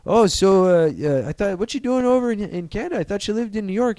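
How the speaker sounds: high-pitched, hesitant friendly questioning; curious border officer. Retold or imitated. Officer asking a star why he is in Canada, high puzzled voice. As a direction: ask haltingly, pitched well up.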